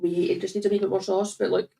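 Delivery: eating while speaking; words round a bite of food; chewing while talking. Real, not acted. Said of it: "we have to stop eating on the mic".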